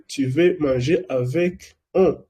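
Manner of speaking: a wrong example, avec un. Shown as a demonstration. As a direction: read avec un as the mistake. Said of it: "no, así no se dice".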